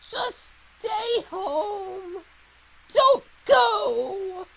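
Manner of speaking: put-on slow, then loud old man shout; grumpy old man. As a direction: bellow like a desperate old man. Old woman begging her to stay.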